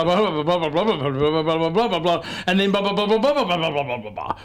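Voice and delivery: imitating a rambling audience question in blah-blahs; long-winded questioner. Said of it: "some guy comes in".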